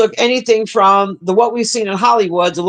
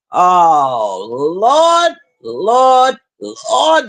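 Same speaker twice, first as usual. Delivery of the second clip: mock church lament; much slower than usual. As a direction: cry out Lord like a churchgoer in despair. Mocking religious folks.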